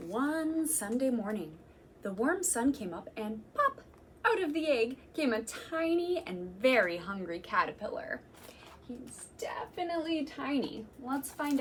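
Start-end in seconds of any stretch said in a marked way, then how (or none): 0.1-8.2 gentle storytime read-aloud; reading to children. Acted. Reading picture book to children.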